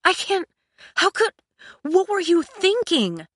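high, broken-off sputtering; exasperated outburst at a high pitch; sharp, delirious disbelief. A narrator's reading. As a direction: stumble through it, aghast. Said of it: "it was sharp and delirious".

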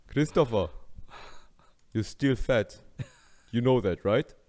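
lightly voiced stern Austrian father; mock scolding in Austrian-accented English; Schwarzenegger. Schwarzenegger shaming his son, light impression. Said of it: "besser eine Schwarzenegger-Impression machen vorher".

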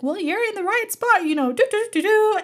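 faked confidence. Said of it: "acting like I've done this a million times".

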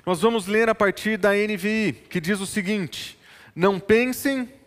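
ordinary talk

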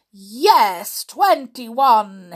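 loud, emphatic confirmation; pleased realisation. A narrator's reading. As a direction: announce it with satisfaction. Giant pleased with the answer.

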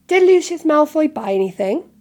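loud, high, urgent question; pointed demand to know; sharp. A narrator's reading. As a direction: ask it sharply. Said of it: "said Mister Weasley sharply".

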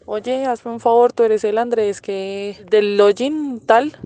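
slow and sneaky, playing innocent; sly innocent. Slyly approaching the coworker, slow and falsely innocent. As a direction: ask slowly, feigning a casual mistake. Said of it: "yo bien asolapada llegué".

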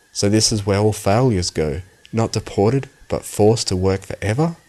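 ordinary delivery

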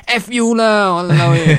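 loud high swearing retort; Singlish cursing outburst. Retold or imitated. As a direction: snap back with a loud curse. Friend swears back loudly.

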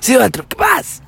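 Adela Micha. Acted. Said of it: "y tú eres Adela Micha".

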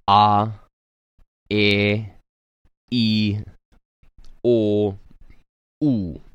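"A, e, i, o, u" with a glottal catch, then held long; sharp, long vowels. Shown as a demonstration. Teacher showing the class okina plus kahako. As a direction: hit each vowel sharply and stretch it. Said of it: "creating a sharp sound before the vowel and a lengthened vowel sound".

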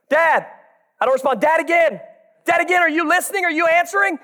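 put-on insistent child. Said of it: "It's like my eleven-year-old".

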